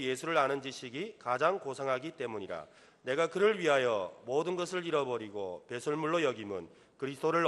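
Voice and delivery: loud, measured congregational Bible reading; declaimed scripture, phrase by phrase. Real, not acted. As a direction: read the verse out strongly for all to follow. Leads congregation reading scripture aloud.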